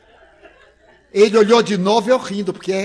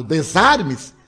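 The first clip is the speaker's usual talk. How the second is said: slow, drawn-out, louder order; stern command; 7 dB louder, slower than usual. Retold or imitated. Psychoanalyst ordering the nervous visitor, slow stern command. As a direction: spell it out like a clinical verdict.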